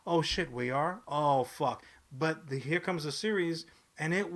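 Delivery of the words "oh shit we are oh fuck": loud, frustrated rant; exasperated outburst. Retold or imitated. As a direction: yell it in disbelief. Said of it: "I'm like".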